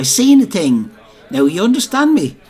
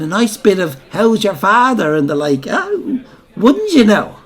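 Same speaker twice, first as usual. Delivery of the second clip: flirty coaxing; 4 semitones higher than usual. Retold or imitated. Widow coaxing the officer inside.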